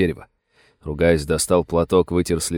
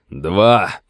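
shout. Acted. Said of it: "крикнул Крамер".

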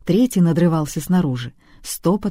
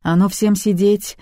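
louder, higher barked order; bark a command; 5 semitones higher, 4 dB louder than usual. A narrator's reading. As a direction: snap everyone into place. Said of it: "рявкнул Сергей". (Сергей рявкает приказ всем сидеть)

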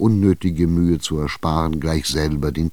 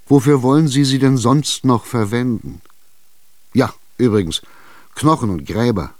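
higher, louder, impatient buyer; Chichikov insisting; 5 semitones higher, 4 dB louder than usual. Acted. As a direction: corner her, push for an answer. Tschitschikow drängt die Alte. (Tschitschikow drängt ungeduldig, höher und lauter)

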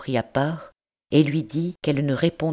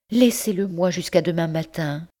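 higher, desperate plea; cri suppliant; 5 semitones higher than usual. Acted. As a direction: keep begging, voice pitched up. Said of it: "cria-t-elle". (jeune mère qui supplie son oncle, voix aiguë implorante)

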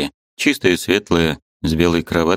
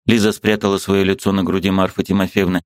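usual speaking voice

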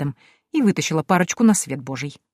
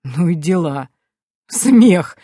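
scoffing; 4 dB louder, much slower than usual. A narrator's reading. Bearded man scoffs.

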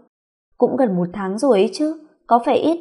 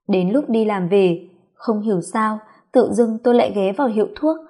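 ordinary delivery

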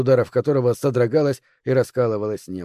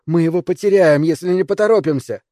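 urgent; 4 semitones higher, 4 dB louder than usual. Acted. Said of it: "подгоняла нас Герлиц".

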